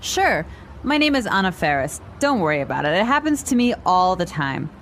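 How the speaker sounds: quick, natural conversational pace; natural speed. Shown as a demonstration. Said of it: "this time at natural speed".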